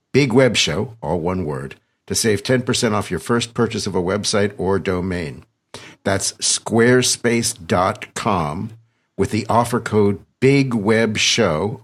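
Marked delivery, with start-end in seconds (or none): 6.0-11.8 slow, deliberate promo code; measured sponsor read. Shown as a demonstration. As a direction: spell it out slowly for listeners. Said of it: "ad read repeated slowly".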